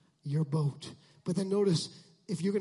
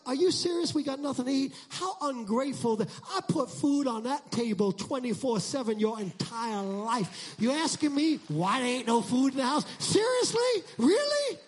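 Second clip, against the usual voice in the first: exasperated parent; 4 semitones higher than usual. Retold or imitated. Parent scolding ungrateful kids, exasperated. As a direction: build into a disbelieving yelp. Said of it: "They're like".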